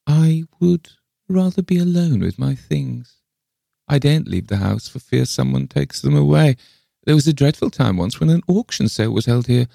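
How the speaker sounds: high, possessive eccentric voice; jealous old lady. A narrator's reading. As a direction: pitch it high, guarding her treasures anxiously. Le Fane guards her things.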